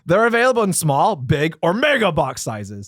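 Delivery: measured promotional read; announcer-style product read. Acted. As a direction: read the menu copy out deliberately. Reads food promotion copy.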